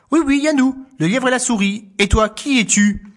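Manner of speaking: high, brighter little answer; mouse voice. Acted. Mouse and hare answering the fox, high. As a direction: welcome the guest.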